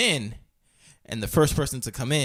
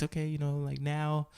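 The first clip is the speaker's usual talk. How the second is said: slightly soft, higher instructor voice; tranquil voice, imitated; 4 semitones higher, 4 dB quieter than usual. Yoga teacher guiding the class, imitated tranquil voice. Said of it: "very tranquil voice".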